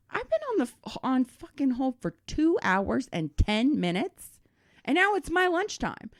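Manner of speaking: high, indignant disbelief, slowing on "two hours"; hammed-up outrage at a two-hour hold; exasperated outburst. Fed up after two hours on hold, caller vents in exasperation.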